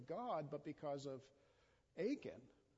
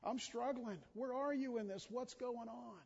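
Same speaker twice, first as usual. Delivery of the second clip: blunt honest prayer; 6 semitones higher than usual. Retold or imitated. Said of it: "rather than saying to the Lord".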